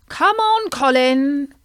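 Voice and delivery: loud high call across the pond. Acted. Bertie calling Colin to join the meeting, loud high call. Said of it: "called out Bertie".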